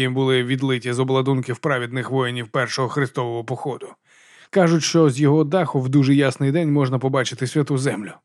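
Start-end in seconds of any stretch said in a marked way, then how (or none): none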